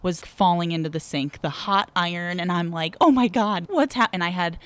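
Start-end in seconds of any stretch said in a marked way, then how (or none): 3.0-4.1 higher-pitched mock alarm; re-enacted panicked outburst; retold panic. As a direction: act out a rising panic, cut off mid-word. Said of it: "I'm in a panic".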